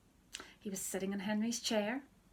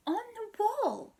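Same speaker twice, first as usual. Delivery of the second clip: high, startled disbelief; shocked question; 14 semitones higher, 6 dB louder than usual. Acted. Peter questions Henry's idea, shocked and high. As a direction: gasp it in disbelief.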